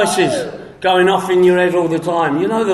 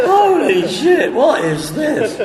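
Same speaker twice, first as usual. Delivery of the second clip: mock bewilderment; 5 semitones higher, slower than usual. Retold bewilderment.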